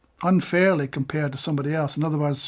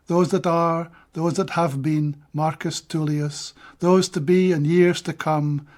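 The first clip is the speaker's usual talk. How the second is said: measured recital of a Scots verse; steady Scots poetry recital; poem reading. Acted. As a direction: read it like a poet giving a reading.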